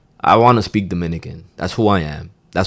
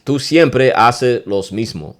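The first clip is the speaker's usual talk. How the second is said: slow demo phrase; 3 semitones higher, 4 dB louder, slower than usual. Shown as a demonstration. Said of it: "Get what I'm saying?".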